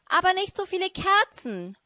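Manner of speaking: high, quick owl's wail; hooting owl protest. Acted. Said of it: "heulte die Eule".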